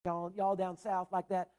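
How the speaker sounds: slow, lightly mimicked southern drawl. Preacher teasing the youth campers, a mild Southern drawl. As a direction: drag out the y'all like a gentle Southern imitation. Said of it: "you don't got that southern drawl".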